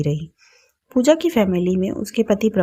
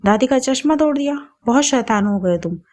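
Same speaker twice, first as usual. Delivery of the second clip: put-on grandmother's raised, higher-pitched scolding of the boy; scolding loudly; 5 semitones higher than usual. Grandmother scolds grandson for breaking the glasses, raised and sharp. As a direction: scold him sharply, voice climbing. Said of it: "जोर से डांटते हुए बोली".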